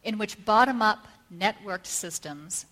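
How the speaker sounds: measured oratory with deliberate pauses between phrases; formal speech. Real, not acted. Speaker opening a talk on art and survival, formal speech. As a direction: read out a solemn prepared address.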